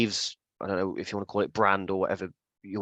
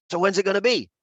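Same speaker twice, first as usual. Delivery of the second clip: higher, louder friendly question; Devon impression; 9 semitones higher, 4 dB louder than usual. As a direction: ask it brightly. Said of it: "I'm gonna do an impression of you".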